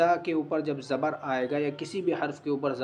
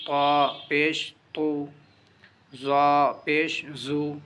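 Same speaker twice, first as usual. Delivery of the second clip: slow, louder, sing-song letter-by-letter recitation; drill recitation; 4 dB louder, much slower than usual. Shown as a demonstration. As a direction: chant each letter for children to repeat. (بچوں کو پڑھاتے ہوئے آہستہ، بلند آواز میں ہجے)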